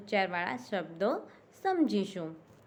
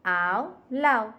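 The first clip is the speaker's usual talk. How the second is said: slow, deliberate આવ, લાવ; slow rhyme demo; 5 dB louder, much slower than usual. Shown as a demonstration. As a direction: stretch both words evenly. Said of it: "અંતિમ શબ્દ શું થયો?".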